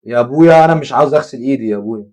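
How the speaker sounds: loud, exasperated refusal; loud protest. Real, not acted. Player protests to the game about washing his hands, loud protest. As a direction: plead loudly against being ordered about.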